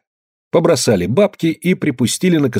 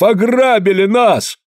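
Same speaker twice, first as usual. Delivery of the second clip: higher, slow, outraged shout; outraged cry; 10 semitones higher, slower than usual. A narrator's reading. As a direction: cry out that they were robbed. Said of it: "заорал Калистрат Зотов".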